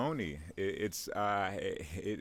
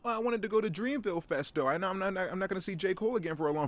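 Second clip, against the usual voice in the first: much higher and louder pleading whine; whimpering falsetto complaint; whiny victim; 10 semitones higher, 4 dB louder, faster than usual. Pretend. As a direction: plead like a crushed student. Whiny victim answers the Jersey man.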